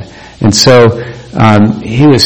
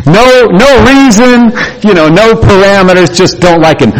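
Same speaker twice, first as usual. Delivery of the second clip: incredulous; 9 semitones higher than usual. Real, not acted. Stressing childish pettiness.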